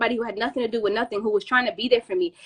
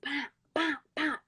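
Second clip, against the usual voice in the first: imitated punches; 2 semitones higher, 9 dB quieter than usual. Imitates her own punches.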